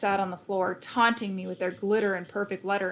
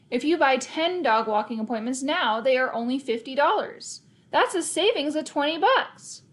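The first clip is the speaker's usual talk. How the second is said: eager sales pitch; 5 semitones higher than usual. Acted. Kid's sales pitch to customer.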